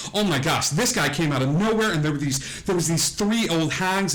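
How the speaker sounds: put-on high-pitched, overwrought girl, no real sobs; tearful daughter. Daughter hugging her mother after a fright, mock tearful. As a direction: pour it out as an upset daughter. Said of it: "She's crying on your shoulder. She's like".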